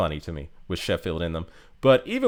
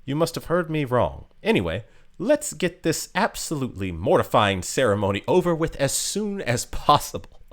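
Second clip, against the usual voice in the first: lightly posh British, a bit higher, cool and dismissive; a hint of posh British coolness, brushing it off; mild posh British aloofness; 4 semitones higher than usual. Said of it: "she sounds super posh British".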